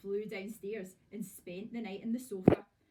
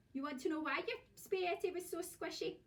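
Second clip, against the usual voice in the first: higher, sly gloating question; 7 semitones higher than usual. Acted. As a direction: tease him with a sly question. Wife gloating over her trick.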